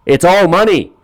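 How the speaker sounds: high, exasperated retort; scoffing at bad money advice; incredulous. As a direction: throw it back at him up high. Mocking Steve Harvey's advice.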